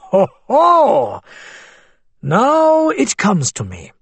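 put-on Arabic accent. A narrator's reading. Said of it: "Abu Hamad smiled broadly".

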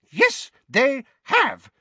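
slow, high, loud retort; furious yell. A narrator's reading. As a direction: yell each word while swinging a blow. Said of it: "yelled Missus Figg".

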